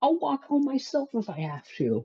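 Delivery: play-acted high shrieking scream, swinging up and down. Recounting a fight in the car with parents, the speaker reenacts own screaming. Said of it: "I was screaming at them".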